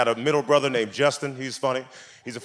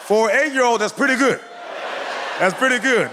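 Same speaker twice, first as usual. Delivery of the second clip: amazed; 9 semitones higher than usual. Real, not acted. Comic amazed praise.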